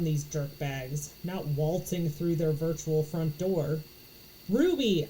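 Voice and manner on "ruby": shouted name, higher and louder. A narrator's reading. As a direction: call her name out loud. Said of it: "I shout".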